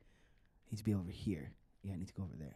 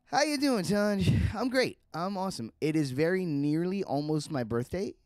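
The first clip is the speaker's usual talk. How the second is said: much higher and louder, bubbly; cheery greeting; 8 semitones higher, 7 dB louder, slower than usual. Real, not acted. Player greeting Tunj in a high, bubbly voice. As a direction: sing it out, thrilled to see her.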